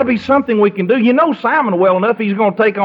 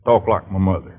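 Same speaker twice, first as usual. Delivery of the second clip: Simon's flustered denial; 9 semitones lower than usual. Acted. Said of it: "He says".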